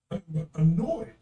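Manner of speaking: slow, understated imitation of an unbothered partner; mild annoyance. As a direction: draw the word out, barely upset. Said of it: "radically different emotional responses".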